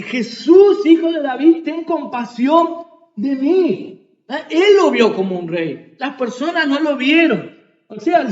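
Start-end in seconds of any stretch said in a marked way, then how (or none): 0.0-4.1 raised, higher-pitched plea for mercy; imitated crying out. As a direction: call out like the blind beggar, half shouting. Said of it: "comenzó a gritar".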